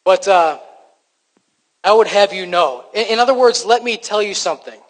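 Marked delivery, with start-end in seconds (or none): 1.8-4.8 angst. Acted. Preacher voicing Paul defending himself to the church, angst-edged. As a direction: set them straight with an edge of angst. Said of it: "there's a bit of angst in his voice".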